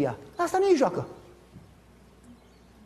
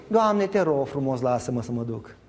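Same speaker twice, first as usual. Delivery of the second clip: slow, much lower whining plea; Balaam pleading; 10 semitones lower, 3 dB quieter than usual. Retold or imitated. Balaam begging God to let him go, slow whiny plea. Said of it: "Și Balaam ce zice?".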